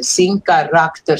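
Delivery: sem caráter spelled out slowly, syllable by syllable; counting syllables in sem caráter. Shown as a demonstration. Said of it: "the last verso falta um sílaba".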